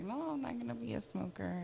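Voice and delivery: high, soft protest; mock refusal. Younger self refusing to smoke, protesting.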